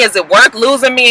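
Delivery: lightly acted girlfriend's earnest question; imitating nagging girlfriend. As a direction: ask it as the girlfriend, only mildly dramatized. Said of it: "she's going on and on talking about".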